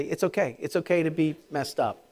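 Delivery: reassuring. Shown as a demonstration. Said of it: "Turn to somebody and tell them that".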